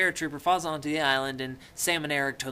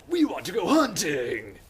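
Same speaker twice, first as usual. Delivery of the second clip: louder, higher, hammed-up hunter's cheer; eager mock cry; 5 semitones higher, 6 dB louder than usual. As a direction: call it out like an overeager boy. Acted quote of eager hunters.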